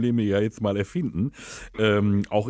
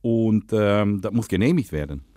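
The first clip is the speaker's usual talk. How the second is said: put-on Dutch accent, lisping. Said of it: "rede, lispeln und Holländisch".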